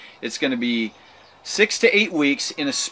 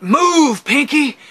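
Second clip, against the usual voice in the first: loud, high urging shout; urgent inner command; 12 semitones higher, 7 dB louder, much slower than usual. Retold or imitated. Brain commanding the injured pinky, urgent command. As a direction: order it forcefully, pitched way up. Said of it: "my brain is telling it".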